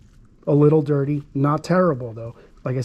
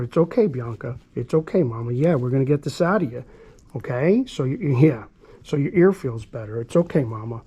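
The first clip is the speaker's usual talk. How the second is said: soothing the dog. Shown as a demonstration. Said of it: "say to her".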